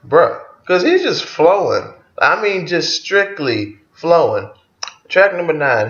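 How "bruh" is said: stunned bruh. Retold or imitated. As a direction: react like the track floored you with "Bruh". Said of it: "this shit had me like".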